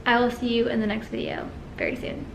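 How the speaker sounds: barely awake, winding down; nodding off. Real, not acted. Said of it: "literally so tired I'm falling asleep".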